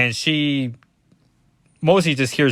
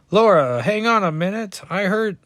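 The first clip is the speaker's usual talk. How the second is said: higher-pitched attempt at a Cajun accent; Gambit; 7 semitones higher than usual. Comic reader trying a Gambit accent on Laura, bad Cajun. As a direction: try a Cajun accent, badly. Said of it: "this is a horrible Gambit impression".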